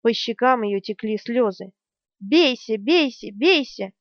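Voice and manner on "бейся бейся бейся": a touch of tearful rage; mild mock frantic demand. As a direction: hammer each word as she strikes. Berdine hitting him, in tears.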